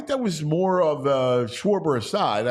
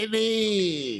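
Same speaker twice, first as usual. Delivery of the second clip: raspy smoker lady impression; lightly voiced raspy caller; smoker's voice; 5 semitones higher than usual. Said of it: "that smoker's voice".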